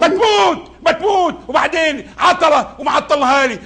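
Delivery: angry yelling. Acted. Boss yelling at late worker.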